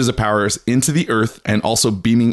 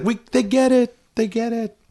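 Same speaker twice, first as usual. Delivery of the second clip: mock aliens; 13 semitones higher than usual. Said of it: "the aliens would be like".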